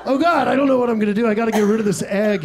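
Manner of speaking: rushed, faintly panicky retelling; quick, lightly flustered self-quote; mild mock panic. Comic to crowd about being caught with an egg, mock panic.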